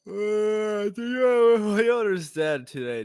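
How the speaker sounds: high, loud, hyped YouTuber intro; overexcited channel opener, loud and high. Acted. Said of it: "you gotta do that YouTuber intro".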